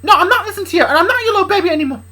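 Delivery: high, loud tirade building to a scream; defiant yelling. Acted. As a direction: shout your defiance, climbing to a shriek. Luna defies her father, quarrelling.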